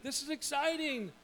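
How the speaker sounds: high-pitched excited quote; excited parents. Retold or imitated. Parents thrilled at daughter moving into womanhood, high and excited. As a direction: pitch it up with eager delight. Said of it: "and we're like".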